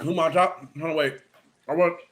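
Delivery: talking through a mouthful of food; words round a bite of food; mouth full. Real, not acted. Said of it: "don't talk with your mouth full of food".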